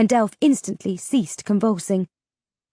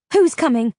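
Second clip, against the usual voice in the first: sharp; 5 semitones higher, 4 dB louder than usual. Acted. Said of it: "I asked sharply".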